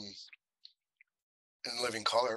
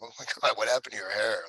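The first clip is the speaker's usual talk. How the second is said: laughing at him; faster than usual. Retold or imitated. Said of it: "You laughed. You laughed at him".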